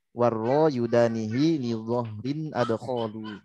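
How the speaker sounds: slow, chanted verse recitation; slow measured chant of the verse; recited verse. Shown as a demonstration. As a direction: intone the line slowly and evenly. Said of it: "bait tentang huruf ro".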